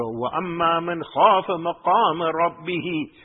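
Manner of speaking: quick recited Arabic verse; quick Quran recitation. Acted. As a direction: rattle off the verse in a fast recitation.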